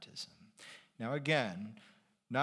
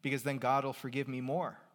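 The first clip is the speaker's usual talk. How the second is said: building from plain to much higher, louder glee; mock gleeful sinner; 10 semitones higher, 5 dB louder than usual. Preacher mocking the objector, building to giddy glee. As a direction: egg on the objector's logic until it's giddy. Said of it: "isn't that just going to make you say".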